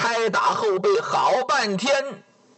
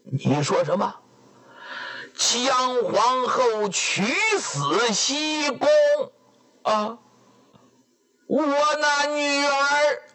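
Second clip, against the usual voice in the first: shocked father; 5 semitones higher than usual. Acted. Father hears daughter's death.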